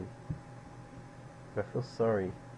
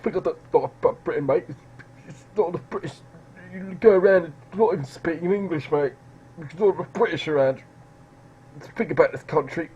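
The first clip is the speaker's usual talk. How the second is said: high, loud lout's rant; hammed-up angry British patriot caricature; mock British nationalist; 5 semitones higher, 8 dB louder than usual. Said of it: "that's what they all look like".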